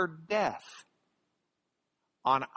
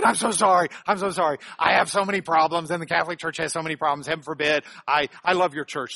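loud, gushing mock apology; mock effusive apology; 6 dB louder, faster than usual. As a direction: blurt out an exaggerated, contrite apology. Acted apologetic email reply from buddy.

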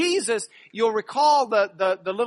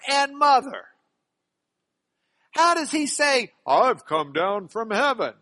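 higher, louder indignant townsfolk; grumbling crowd; 6 semitones higher, 5 dB louder than usual. Acted. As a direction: voice the scoffing crowd, raised and incredulous. Grumbling crowd quoted from scripture.

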